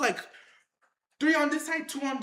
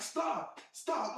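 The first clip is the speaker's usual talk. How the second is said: hushed mock plea to stop; softly acted-out "stop"; retold plea; 7 dB quieter than usual. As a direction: plead under your breath, as if retelling it. Retold plea to pinned lion.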